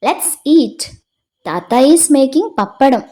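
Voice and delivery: mild call across the house; child calling out. Acted. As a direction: call out eagerly like a little girl. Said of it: "Rosa yells".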